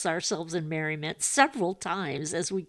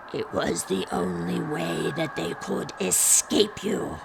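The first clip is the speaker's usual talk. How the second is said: slow spectral pronouncement; drawn-out ghost voice; ghostly spirit; slower than usual. A narrator's reading. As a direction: intone it gravely like a phantom.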